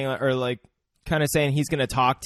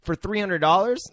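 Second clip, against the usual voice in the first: tag; 7 semitones higher than usual. Retold or imitated. His version of the sip reaction.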